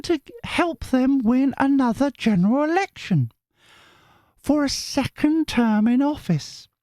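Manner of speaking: very high, slow squeaky voice; high-pitched viewer voice. Retold or imitated. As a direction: read her message in a silly squeak. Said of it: "all the voices are me".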